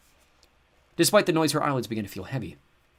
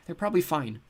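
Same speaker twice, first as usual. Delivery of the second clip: squeaked; 7 semitones higher than usual. A narrator's reading. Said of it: "he squeaked".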